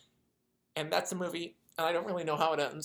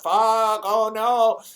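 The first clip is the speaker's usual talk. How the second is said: sudden loud higher burst of dismay; panicked curse; 6 semitones higher, 13 dB louder, much slower than usual. Retold or imitated. Sniper cursing his own radio blunder, loud panicked outburst. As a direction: blurt it out as the panic hits. Sniper realizes he gave himself away.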